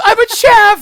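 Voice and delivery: very high, loud mock shout; exaggerated high-pitched yell; imitating Rose Tyler. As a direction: shriek it as a hammed-up TV quote. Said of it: "When she goes".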